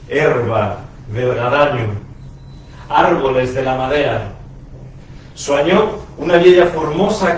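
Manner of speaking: deliberate phrasing with long pauses between images; emphatic verse reading that tapers away at the close; poem recitation. Acted. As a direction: recite a dream poem, lifting each new image.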